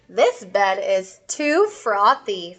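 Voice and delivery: lightly voiced bear, testing the bed, slowly. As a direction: bear speaking slowly and drawn out.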